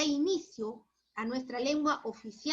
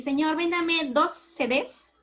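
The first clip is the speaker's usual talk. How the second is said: shy shop request; 4 semitones higher, 6 dB louder, slower than usual. Retold or imitated. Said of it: "era raro ir y decir".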